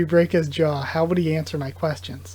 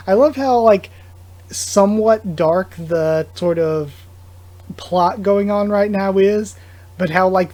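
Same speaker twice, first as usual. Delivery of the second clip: louder, slower gushing about the plot; excited gush; 3 semitones higher, 7 dB louder than usual. Real, not acted. Reader praising the dark plot, excited gush. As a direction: savor every word, gushing. Enthusiastic commentary on the comic.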